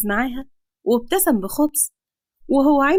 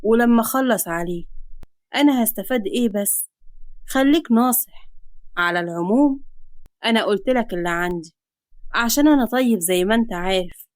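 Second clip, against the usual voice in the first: menacing creditor. Acted. Creditor gives father until morning, mildly menacing. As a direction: lay down a deadline with understated threat.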